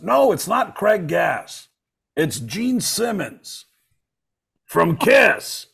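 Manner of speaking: very slow, high mock rock singer; rock singer impression. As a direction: stretch every word like the singer. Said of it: "And he goes".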